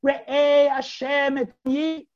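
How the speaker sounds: high, slow, drawn-out appeal; calling out. Acted. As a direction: model a call to God, stretching it. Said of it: "I want you to call to Hashem".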